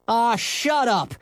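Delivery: high, drawn-out retort; yelling back. Acted. Henry answering his tormentors, indignant high yell. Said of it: "he yelled back".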